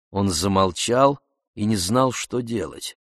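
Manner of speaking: usual speaking voice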